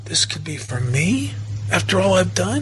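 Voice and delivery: quoted incredulous question with rising end; mild, wondering disbelief, lifting on the question; disbelieving question. Retold or imitated. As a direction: ask it as if undeserving. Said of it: "as if she's saying".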